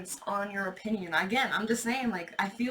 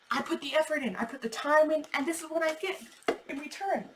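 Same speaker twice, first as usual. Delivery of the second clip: higher, indignant mock rant with rising heat; telling them off; 4 semitones higher than usual. Aries ranting at doubters who never believed, higher and indignant. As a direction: give the doubters a righteous dressing-down.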